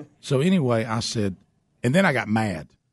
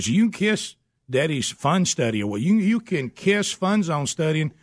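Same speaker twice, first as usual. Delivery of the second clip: much higher, hammed-up scolding dad; mock outrage; 8 semitones higher than usual. Dad ranting at son about bad grades, hammed-up high outrage. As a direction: ham up a dad's dramatic rant.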